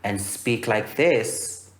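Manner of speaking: slow demo with a lifted tone on this. Shown as a demonstration. Coach shows students how to change tone, slow lifted tone. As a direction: ease the tone up and stretch the words slowly. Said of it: "change my tone and go higher".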